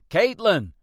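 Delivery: desperate cry through the house; panicked call for a missing child; frantic shout. Acted. Searching house, calling her name.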